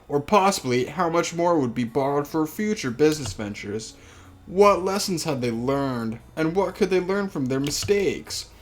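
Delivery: reading the novel aloud; story narration. Acted. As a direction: narrate the family's story evenly. Reads the visual novel aloud.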